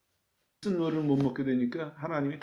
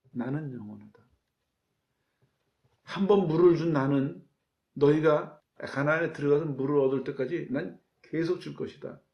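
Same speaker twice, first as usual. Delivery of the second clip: proclaiming God; 4 dB louder than usual. Acted. 하나님 말씀 선포.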